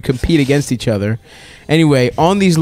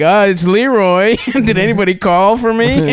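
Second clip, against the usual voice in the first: put-on caller voice; 6 semitones higher than usual. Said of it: "in a very racist black voice".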